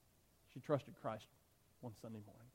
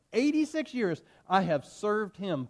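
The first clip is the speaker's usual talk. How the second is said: slow and raised, pressing each word; firm declaration; 5 semitones higher, 4 dB louder, slower than usual. Acted. Polycarp declaring his lifelong service to the proconsul, slow and firm. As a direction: testify it with conviction. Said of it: "Polycarp declared".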